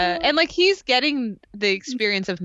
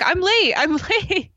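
flustered Jen; 7 semitones higher than usual. Retold or imitated. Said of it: "And she's like".

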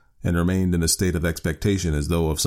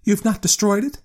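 put-on old woman voice; 3 dB louder than usual. A narrator's reading. Wife presses husband at night.

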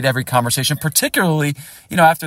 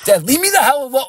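put-on high, bratty teen snapping at his dad; a touch of a spoiled teen telling dad off, pitched up; 10 semitones higher, 3 dB louder than usual. Teen son brushing off his dad after a game, in a high bratty snap. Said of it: "like, a spoiled brat at times".

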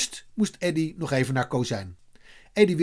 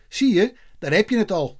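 higher-pitched, mild cry; mildly raised storytelling exclamation; calling out; 6 semitones higher, 4 dB louder than usual. A narrator's reading. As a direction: call it out, lightly acted. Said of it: "riep Eddie".

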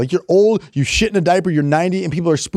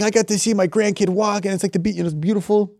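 put-on Italian accent; 5 semitones higher than usual. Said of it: "I don't know why you're Italian now".

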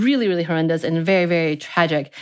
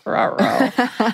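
sputtering engine; 5 semitones higher than usual. Pretend. Plants died, cartoon exclamation.

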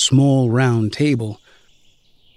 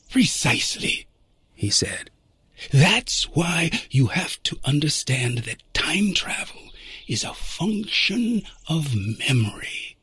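noir detective; 5 dB quieter than usual. Acted. Time traveler continues.

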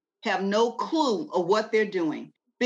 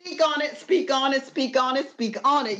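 preacher mode; 5 semitones higher than usual. Real, not acted. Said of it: "you got the preacher mode in me revved up".

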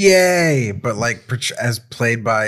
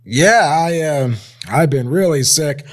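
higher, whiny, near-crying sick voice; fake sick voice; 7 semitones higher, 5 dB louder, slower than usual. Shown as a demonstration. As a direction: play up being ill with a whimper. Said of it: "I'm playing it wrong. Let's do it again".

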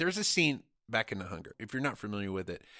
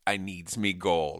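lower, slow stage-Irish; mock Irish accent; 5 semitones lower, slower than usual. Podcaster owning up to their mockery, low mock Irish accent. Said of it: "with our gangsterish".

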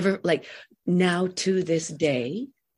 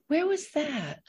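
retold wonder; 12 semitones higher, 3 dB quieter than usual. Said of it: "and I thought".

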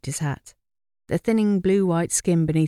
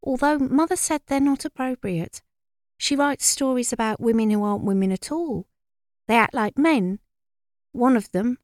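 higher-pitched knowing gossip; air of authority; 6 semitones higher than usual. A narrator's reading. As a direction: pass it on with self-important authority. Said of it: "said with an air of authority".

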